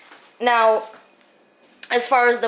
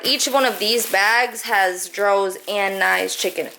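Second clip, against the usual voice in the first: talking through the hiccups; hiccuping between words. Real, not acted. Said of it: "I'm sorry, I have the hiccups".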